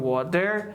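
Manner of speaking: WATER with a full, heavy D for the T; hard D. Shown as a demonstration. Teacher shows the wrong version, WATER with hard D. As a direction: say WATER with a solid D in the middle. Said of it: "نمیگیم".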